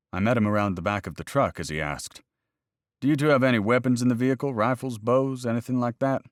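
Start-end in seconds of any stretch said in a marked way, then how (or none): 3.0-6.2 brisk warden questioning. Acted. Narrator voices the game warden.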